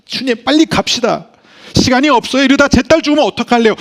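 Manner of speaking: high, loud, rushing plea of a frantic father; frantic father pleading, pace quickening; desperate plea. Acted. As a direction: beg him to hurry before your daughter dies. Father begging Jesus to hurry.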